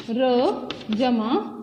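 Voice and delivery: र जमा said very slowly; slow spelling. Shown as a demonstration. Teacher spelling श्र slowly. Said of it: "श्र के लिए कौन से वर्ण हैं".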